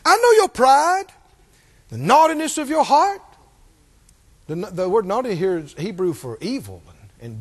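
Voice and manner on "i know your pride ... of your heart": retold older brother's rebuke; acted-out accusation; accusing. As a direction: call him out, drawing out the charge. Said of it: "He's accusing him of being negligent".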